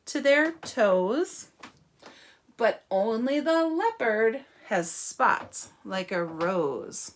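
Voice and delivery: measured picture-book reading with pauses; story reading. Acted. Teacher leads children to the zoo in the book, measured story reading. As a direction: lilt through it, stretching the ends of phrases.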